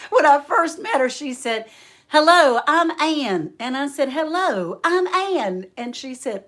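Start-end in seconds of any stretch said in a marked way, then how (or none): 2.1-3.5 loud, high, gushing hello; exuberant greeting. Retold or imitated. Re-enacts friend's first greeting. 4.1-5.7 high, bouncy echoed hello; match her big greeting, playfully high; exuberant greeting. Retold or imitated. Echoes the friend's greeting back.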